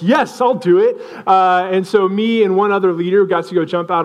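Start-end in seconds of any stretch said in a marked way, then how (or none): 0.0-1.0 higher, keen retold yes; eager agreement. Leader accepting a skydiving invitation, eagerly. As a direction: jump at the offer, pitch up.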